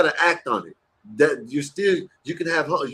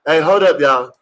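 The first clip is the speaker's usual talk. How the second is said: calling out; 5 dB louder than usual. Real, not acted. Calling the room to order.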